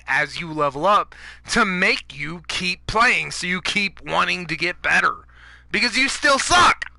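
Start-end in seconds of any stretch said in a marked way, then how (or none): 5.7-6.9 ranting jab. Real, not acted. Ranting at players.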